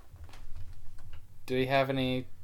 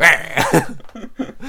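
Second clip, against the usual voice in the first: tiger roar; 3 dB louder than usual. Retold or imitated. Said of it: "makes that sound".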